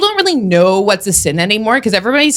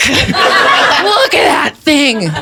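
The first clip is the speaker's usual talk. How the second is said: slow, drawn-out envious admiration; envy impression; much slower than usual. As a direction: linger enviously over each word. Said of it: "That's envy".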